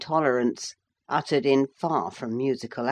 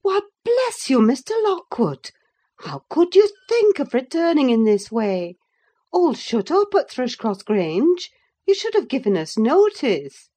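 higher, louder, delighted surprise; glad surprised cry; 9 semitones higher, 4 dB louder than usual. A narrator's reading. Housekeeper surprised to see Mister Lockwood return, higher and louder. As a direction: greet an unexpected guest with joy.

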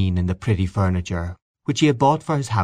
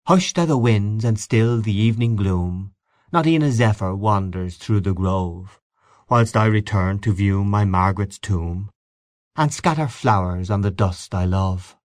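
poem recital. Acted. Reading Byron poem aloud.

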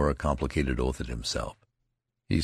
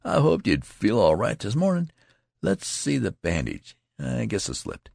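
concerned friend; 7 semitones higher than usual. A narrator's reading. Friend fusses over bandage.

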